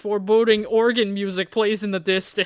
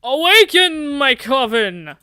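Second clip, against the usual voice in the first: higher and louder, slow proclamation; booming movie vampire; 5 semitones higher, 6 dB louder, slower than usual. Acted. Silver-haired movie vampire rising from coffin, booming. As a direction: proclaim like a cheesy film villain. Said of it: "pale man... sits up in front of a coffin".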